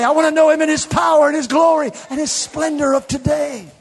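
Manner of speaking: rising, shouted preaching climax; sermon climax, voice climbing; full-force preaching. Acted. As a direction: build it up and preach it loud.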